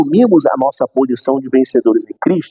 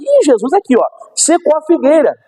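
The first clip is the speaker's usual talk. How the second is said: discípulos espantados; 9 semitones higher than usual. Retold or imitated. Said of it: "os discípulos olharam e falaram".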